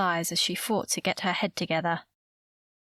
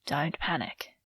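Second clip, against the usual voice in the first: slightly lowered, composed voice; exaggerated calm; 3 semitones lower, 3 dB quieter than usual. A narrator's reading. Man telling a worried woman not to panic, overly calm. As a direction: keep it deliberately even to head off panic. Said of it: "still in that same exaggeratedly calm voice".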